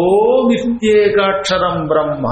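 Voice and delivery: slow, measured Sanskrit chant; stretched-out scriptural quotation; scripture recitation. Shown as a demonstration. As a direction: recite it solemnly with long drawn syllables.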